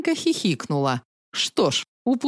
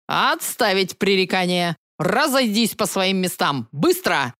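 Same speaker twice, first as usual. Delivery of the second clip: commanding. Acted. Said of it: "приказал Рыжик".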